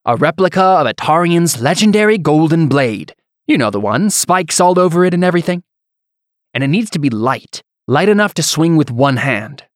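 high, loud pompous noble voice; haughty nobleman. Acted. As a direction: play him as a vain, showy lord.

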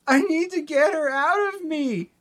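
high-pitched cried-out plea; acted, high desperate wail; Gigi. A narrator's reading. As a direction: cry it out high, like a desperate character in a recap. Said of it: "Gigi cries".

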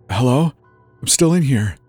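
loud, high call thrown back; echoed call. Acted. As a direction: mimic a shouted call for help. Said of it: "the words were thrown back at me".

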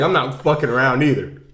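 loud mock pep talk, building; imitated angry actor. Actor orders himself to get it together, loud mock rage. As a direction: bark a hammed-up order at yourself. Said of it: "You're really good at this impression".

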